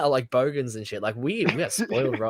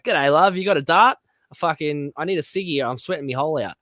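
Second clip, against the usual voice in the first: rough ocker Aussie accent, mocking the girl; crude Aussie girl; 2 semitones higher, 4 dB louder than usual. Mocking a supermarket girl's broad Australian, louder at the start. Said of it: "the way she said it is trash as fuck".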